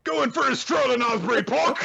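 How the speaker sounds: high, hammed-up British accent; mock posh British call. Joining the joke, summoning dragons in silly British accent. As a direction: sing out like a jolly posh Brit. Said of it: "to command your dragon".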